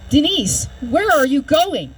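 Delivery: slow, lightly voiced call to a patient; retold nurse calling. Nurse calls to coding patient, mildly urgent retold plea. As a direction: call her back, drawing out the question.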